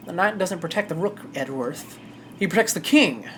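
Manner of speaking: put-on easygoing southern accent. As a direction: play it as a cocky southern lawman. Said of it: "I'm really popping off this southern accent".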